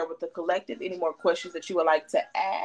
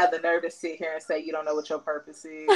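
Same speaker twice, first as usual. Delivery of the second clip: teary disbelief; 3 semitones lower than usual. Real, not acted. Moved after reading, cry heard.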